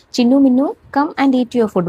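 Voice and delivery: put-on mild sing-song call to the kids; mother goat calling. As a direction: call the kids to come eat.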